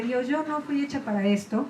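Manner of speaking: a hint of kneeling in tears; tearful prayer. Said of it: "me fui de rodillas a llorar".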